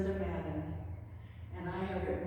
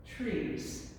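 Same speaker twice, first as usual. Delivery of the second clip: spare haiku, each phrase set apart by pauses; haiku recitation; slower than usual. Acted.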